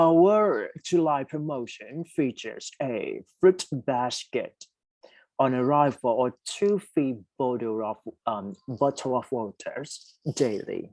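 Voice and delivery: very slow, word by word reading; slow dictation. Shown as a demonstration. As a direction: read the item aloud slowly for the class. Reads question three slowly. (อ่านโจทย์ข้อสามช้ามาก)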